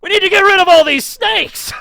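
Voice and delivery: high, loud put-on Irish preacher voice; rally them with a hammed-up Irish cry; a badly faked Irish shout; mock Saint Patrick. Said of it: "attempt to do an Irish accent".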